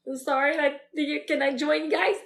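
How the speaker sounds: hesitant, apologetic ask; shy request. Acted. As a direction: ask timidly to be let in. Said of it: "I'm too shy to".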